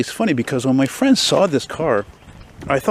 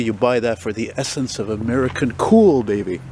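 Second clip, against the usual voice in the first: breathless after hurrying over; talking while still out of breath. Real, not acted. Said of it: "Oh, I'm out of breath".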